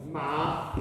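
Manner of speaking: MA in the middle of the voice; teacher's mid-tone MA. Shown as a demonstration. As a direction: say MA at a middling pitch. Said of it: "in the middle of your voice".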